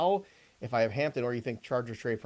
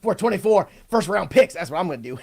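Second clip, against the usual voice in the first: laughing bluster; 4 semitones higher, 9 dB louder than usual. Real, not acted. Hamming it up, laughing.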